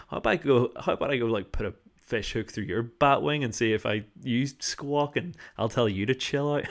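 imagined angry retort. Retold or imitated. Narrator imagining telling the fisherwoman off, mock anger. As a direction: tell her off in your head. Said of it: "it made anger arise in me".

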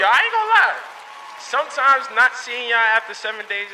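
loud and high, like a megaphone. Real, not acted. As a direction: blare it like a megaphone. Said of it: "Why still sound like a megaphone?".

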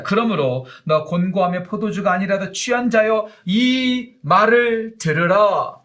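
loud, slowing solemn proclamation; proclaimed scripture reading. Acted. Preacher reading scripture to the congregation: solemn proclamation. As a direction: draw the last words out. Reads verse 21 aloud.

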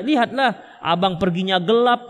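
pelan, memanjang, membela diri dengan sabar; suami memberi pengertian. Acted. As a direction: yakinkan istri dengan tempo lambat. Suami membela diri kepada istri. (suami membujuk dengan sabar)

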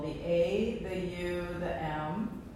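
"A", "U", "M" each syllable of om drawn out separately; sounding out words. Shown as a demonstration. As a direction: sound out "A", "U", "M" one at a time, like parts of om. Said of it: "see if you can sound out each syllable".

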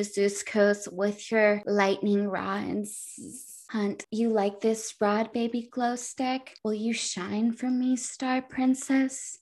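hammed-up lover role play, softly delivered; mock-seductive lovers. Mock love scene between book characters.

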